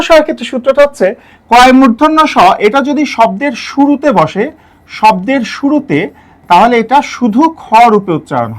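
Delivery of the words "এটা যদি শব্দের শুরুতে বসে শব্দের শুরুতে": slow, deliberate শুরুতে with weight; stress on শুরুতে. Shown as a demonstration. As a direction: lean slowly on শুরুতে. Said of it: "emphasis on the start".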